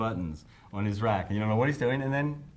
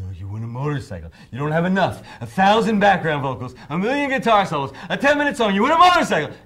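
mock sarcasm; 8 semitones higher, 10 dB louder than usual. The speaker mocking the demand.

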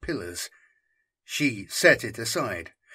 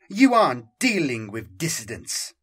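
a touch of cold dismissal; understated cold reply; coldly. Acted. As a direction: correct him with icy restraint. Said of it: "Santos replied coldly".

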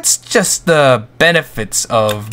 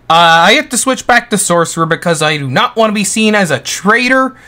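ordinary talk, nothing marked

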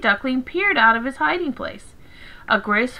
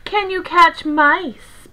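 slow, higher-pitched cat voice; purring cat; 5 semitones higher, 4 dB louder, slower than usual. A narrator's reading. Cat questioning the duckling, lightly purring. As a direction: draw out the question with a light feline lilt. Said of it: "purred a cat".

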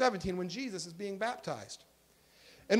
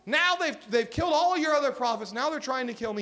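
higher, louder exasperated protest; frustrated; 6 semitones higher, 4 dB louder than usual. Acted. Elijah complaining to God about being hunted, frustrated. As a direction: protest to God with raised pitch, easing at the end. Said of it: "he gets so frustrated".

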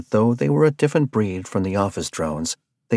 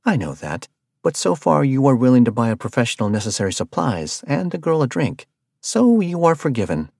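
playful, rising teasing tone; joking with Arthur; jesting; 5 semitones higher than usual. Acted. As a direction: tease him, forgive him in fun. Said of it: "Rabia said with jest".

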